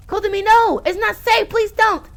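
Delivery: high, loud desperate pleading; terrified plea. Acted. Girl pleading with Kotomi not to go in, terrified. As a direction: beg her to stop, scared out of your mind. Voicing terrified character line.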